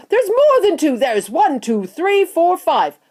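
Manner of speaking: high, loud mounting count; excited shouting. A narrator's reading. Visitors counting little men across the river, excited shouts. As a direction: count out loud in growing amazement. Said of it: "everybody started shouting at once".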